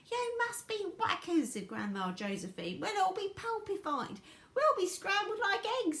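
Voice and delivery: put-on high, loud panicky old voice; panicked old woman. A narrator's reading. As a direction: squawk in panic. Grandmas panicking.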